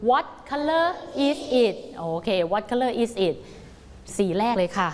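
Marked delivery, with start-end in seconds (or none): 0.1-3.3 What color is it read very slowly; slow model reading. Shown as a demonstration. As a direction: read the question slowly for kids. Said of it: "ประโยคนี้เราอ่านว่าอะไรนะลูก". (อ่านประโยคคำถามช้าๆ ให้เด็กตาม)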